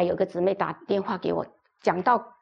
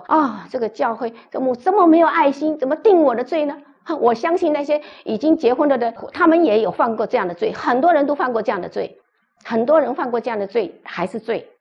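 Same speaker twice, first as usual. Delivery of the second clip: louder and higher, mock indignant complaint; hammed-up outrage at the church; angry protest; 3 semitones higher, 4 dB louder than usual. Coach retold protesting the pastor's refusal, louder and higher in mock anger. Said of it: "就生气了".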